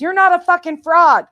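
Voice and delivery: friend's furious text read aloud as a yell; all caps shout. Retold or imitated. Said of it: "Earth in all caps".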